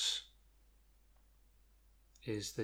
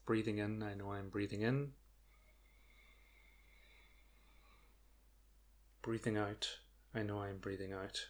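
slightly lowered, measured meditation voice with long pauses; guided breathing meditation; 3 dB quieter than usual. Shown as a demonstration. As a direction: calmly guide a listener through each breath.

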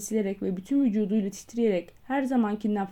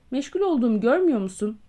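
louder, snapping at her; shouting; 2 semitones higher, 4 dB louder, faster than usual. Acted. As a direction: bark at the customer. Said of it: "diye bağırdı".

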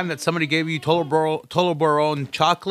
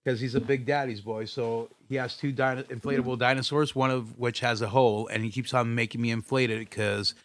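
away from the mic. Real, not acted. Dad talking away from mic while inflating dinosaur, distant. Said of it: "you sometimes talk into the microphone".

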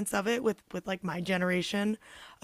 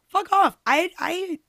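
higher, louder mock rant; playful outburst; 9 semitones higher, 5 dB louder than usual. Real, not acted. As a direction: tell them off with cheeky bluster.

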